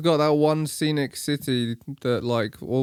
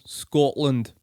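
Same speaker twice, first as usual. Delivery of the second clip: "Scotland" in a put-on Scottish accent; 3 semitones higher than usual. Shown as a demonstration. Showing the one word they can do, Scottish accent. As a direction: say it like a Scot. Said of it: "I can say Scotland".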